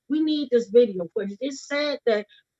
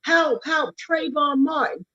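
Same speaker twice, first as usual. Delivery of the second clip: retold cry for help; 3 semitones higher, slower than usual. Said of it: "He's screaming".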